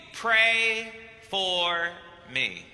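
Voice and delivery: lightly voiced Argentinian accent, dropping low on me; a hint of a deep Argentinian accent, fading at the end. The Pope asking a priest for prayer, lightly Argentinian accented. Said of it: "in that deep Argentinian voice in English".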